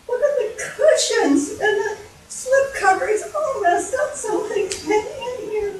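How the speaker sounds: high, put-on mother-bear voice; high-pitched fussy dismay; dismayed Mama Bear. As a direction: fret in a high voice over the mess. Mama Bear sees her chair.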